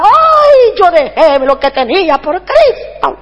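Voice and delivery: hammed-up martyr's complaint; mock lament. Mimics a pastor lamenting his sacrifice.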